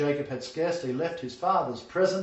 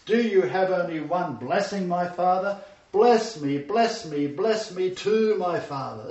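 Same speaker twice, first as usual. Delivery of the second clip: loud, drawn-out desperate plea; anguished pleading; 4 semitones higher, 5 dB louder than usual. Acted. Esau crying to his father for any blessing, loud anguish. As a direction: cry out begging, stretching too. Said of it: "Esau cried to his father".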